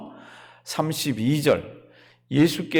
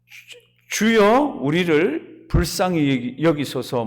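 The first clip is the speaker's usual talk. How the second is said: imitated crying out; 3 dB louder, slower than usual. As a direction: call to the Lord like a pleading beggar. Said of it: "외치는 소리가 뭡니까". (길게 외치는 소리를 흉내 내듯)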